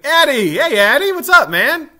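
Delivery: loud, high-pitched shout-out to viewers; shouted greeting. Real, not acted. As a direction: holler hello to a friend joining. Streamer spots another viewer, calls out.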